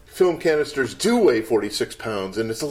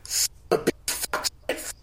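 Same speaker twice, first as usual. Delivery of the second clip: low, slow gravelly movie-star mutter; Bogart impression; 6 dB quieter, much slower than usual. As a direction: mutter it like a tough guy. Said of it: "Humphrey Bogart going".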